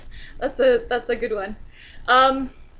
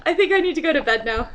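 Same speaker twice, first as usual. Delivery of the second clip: laughing; 5 semitones higher, 6 dB louder, faster than usual. Real, not acted. Laughing after joke.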